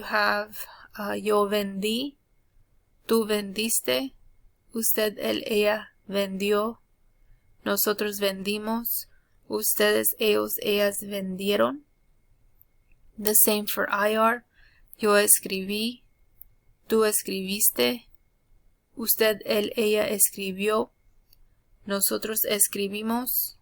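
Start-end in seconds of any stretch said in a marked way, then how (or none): 1.1-11.8 careful teacher's Spanish; Spanish pronunciation demo. Shown as a demonstration. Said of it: "I'll go over the pronunciation". 15.0-23.5 careful teacher's Spanish; Spanish pronunciation demo. Shown as a demonstration. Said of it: "I'll go over the pronunciation".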